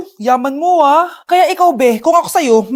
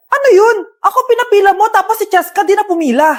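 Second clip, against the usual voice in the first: indignant protest; 3 semitones higher than usual. Acted. Customer protesting unfair treatment.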